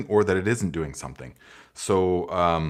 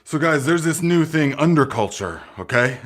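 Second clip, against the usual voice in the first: mock straight-faced promo; 4 semitones higher, 3 dB louder than usual. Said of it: "We could say".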